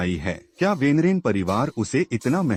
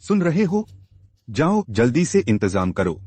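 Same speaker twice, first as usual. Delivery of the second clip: impatient scolding that starts high-pitched; angry order; 4 semitones higher than usual. Acted. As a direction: give a cross order, pitched up at first. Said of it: "इतना गुस्सा क्यों कर रहे हो". (गुस्से में हुक्म देते हुए)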